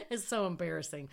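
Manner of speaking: quick words through a laugh; giggling at her own embarrassment, fast; laughing embarrassed. Real, not acted. Telling classmates about her driving, laughing. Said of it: "I don't know why I'm laughing".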